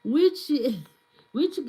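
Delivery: giggling through the question; amused stammer; laughing. Real, not acted. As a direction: laugh while stumbling over the word. Laughs while asking chat.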